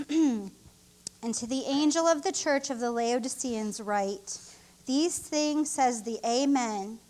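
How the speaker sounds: slow, measured reading of scripture. Acted. Minister reading Revelation to the church, slow and solemn. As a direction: read every word deliberately, weighing it.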